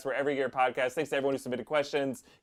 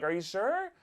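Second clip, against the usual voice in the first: put-on sweet kid; 9 semitones higher, 3 dB quieter than usual. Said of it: "Sweetest kid in the world".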